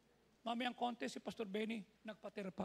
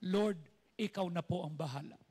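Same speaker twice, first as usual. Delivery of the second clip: prayer demo; 2 semitones lower, 6 dB louder than usual. Shown as a demonstration. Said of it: "Can you say that?".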